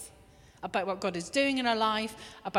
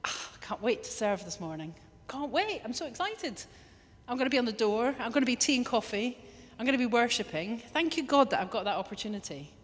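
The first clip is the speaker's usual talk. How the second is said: mock eager volunteer. Preacher voicing a volunteer eager to serve, mock excited. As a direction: play the keen volunteer who can't wait to serve. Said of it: "come with an attitude of".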